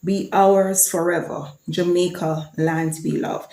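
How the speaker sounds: slow, measured recital of the anthem words; anthem recitation. Shown as a demonstration. Vlogger recites Jamaica's anthem for viewers, slow measured recital. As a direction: speak each line of the anthem slowly and deliberately.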